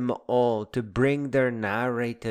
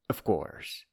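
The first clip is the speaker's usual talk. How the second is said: "of course" breathed as a dry whisper; sarcastic whispered "of course"; whispered aside; 4 semitones lower, 8 dB quieter than usual. Shown as a demonstration. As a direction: drop "of course" to a knowing whisper.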